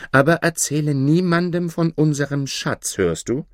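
high, urgent call; calling after her. A narrator's reading. Ali Baba warns his departing wife, calling out urgently. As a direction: call a warning after someone leaving. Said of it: "rief er ihr nach".

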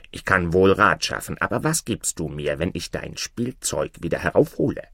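lightly voiced frog, striking a deal; a hint of a talking frog; bargaining frog. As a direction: put the offer as the frog.

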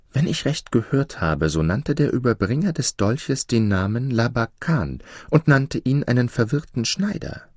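sly old servant, lightly voiced; old slave woman.

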